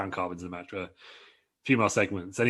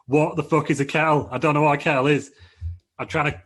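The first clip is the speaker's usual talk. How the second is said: louder, higher exasperated outburst; a flustered son snapping at his helper; annoyed; 4 semitones higher, 5 dB louder than usual. Retold or imitated. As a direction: blurt it out, fed up. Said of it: "Dom's getting real annoyed".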